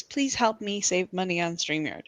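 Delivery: mock pleading. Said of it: "That is".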